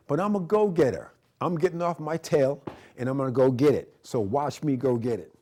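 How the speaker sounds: a TV instructor hyping himself up, loud and eager; pumped-up go-getter. Real, not acted. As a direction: fire yourself up and push it out.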